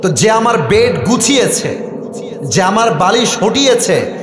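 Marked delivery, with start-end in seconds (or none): none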